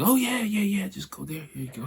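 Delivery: imitating an eager, helpful stranger; mock-friendly direction giving; super friendly. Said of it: "a super friendly rapper".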